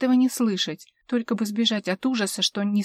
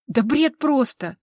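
ordinary delivery

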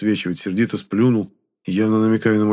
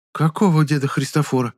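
surprised; 8 semitones higher than usual. Acted. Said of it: "удивлённо спросила крестьянка".

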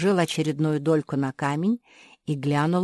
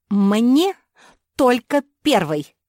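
insisting; 8 semitones higher, 9 dB louder, slower than usual. Acted. Spoiled girl insists.

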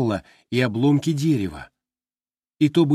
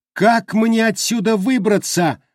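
high, louder anxious question; anxious asking; 10 semitones higher, 5 dB louder than usual. A narrator's reading. A trapped voice asking the way out, anxious. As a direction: ask it in rising panic. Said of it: "вновь и вновь задавал".

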